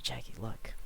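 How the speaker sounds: a hushed, teasing whisper; whispered aside. Retold or imitated. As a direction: lean in and whisper it to a friend. Friend whispering to sister.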